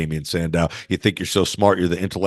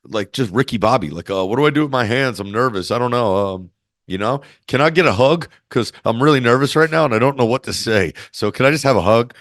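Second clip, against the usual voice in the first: nervous Bayley; 4 semitones higher than usual. Retold or imitated. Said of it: "she would be like".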